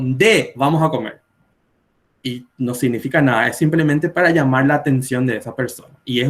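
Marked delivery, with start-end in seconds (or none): 0.0-1.2 "Nde" said first as a casual call, then "vamos a comer"; Paraguayan nde call. Shown as a demonstration. Teacher showing how Paraguayans call a friend to eat, casual call.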